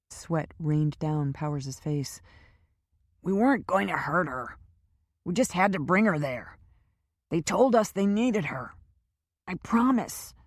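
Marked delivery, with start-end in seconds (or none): 3.2-10.3 a lightly voiced scared prisoner, rising as he pleads; frightened captive. A narrator's reading. Captured Powers pleading with Lynch and Kendra, lightly voiced scared pleading. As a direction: plead your innocence, nervous and a bit higher.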